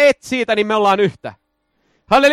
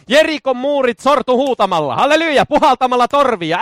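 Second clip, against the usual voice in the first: usual speaking voice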